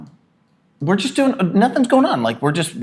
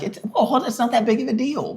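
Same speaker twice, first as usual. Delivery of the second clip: mock soothing; 9 semitones higher, faster than usual. Imitating himself soothing his wife.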